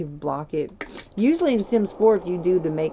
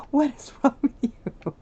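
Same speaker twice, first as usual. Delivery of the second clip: indignant Sim voice; 9 semitones higher, 5 dB louder than usual. Acted. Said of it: "She's like".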